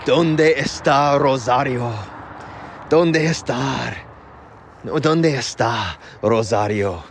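slow, careful textbook Spanish; lightly voiced classroom drill. Shown as a demonstration. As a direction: recite "¿Dónde está Rosario?" slowly like a language drill. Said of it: "the only thing that I learned was".

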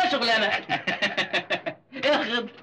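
teasing with a laugh. Acted. Son laughing as he teases his brother. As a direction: laugh through the teasing words.

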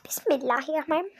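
fast unvoiced whispered basmala; whispered prayer. Real, not acted. Before drinking the romantic drink, quick whispered prayer. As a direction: rush the blessing in a whisper.

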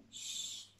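soft unvoiced shh; whispered shush. Teacher shushes the kids, whispered. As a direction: hush them.

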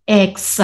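X stretched out with stress; pulled stress. Shown as a demonstration. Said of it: "a stress that is being pulled".

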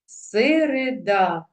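"середа" slowly, each open syllable distinct; measured "се-ре-да", every vowel clear. Shown as a demonstration. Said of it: "Всі склади закінчуються на голосний".

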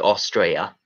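"Austria" as Aussie "Australia" with the L swallowed; Australian-style "Austria", middle consonant dropped; Aussie pronunciation. Shown as a demonstration. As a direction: say "Austria" like "Os-stray-a". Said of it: "I'm told they say Australia".

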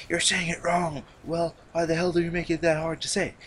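put-on high voice, acting out an argument; squeaky-high imitation of a pedantic squabble; high-pitched mocking voice. Mocking imagined back-and-forth with doctors.

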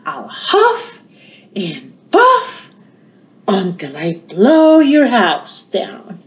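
mild menacing wolf, slow at the end; drawn-out threat; wolf's threat. Acted.

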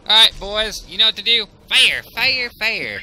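loud, high battle commands; shouting orders. Real, not acted. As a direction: bark orders at the troops. Commanding troops in battle game.

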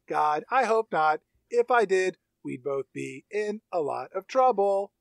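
lightly imitated level, deliberate doll voice; even-keeled robot. Robot deflecting her maker's question, imitated even keel. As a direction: keep it measured and controlled, like a computer. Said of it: "Her tone goes real even keeled".

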